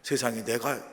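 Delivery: hushed, mildly acted wonder at oneself; self-amazed. Believer marvels at first giving a tithe, mildly amazed. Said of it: "내가 제일 먼저 놀라는 거".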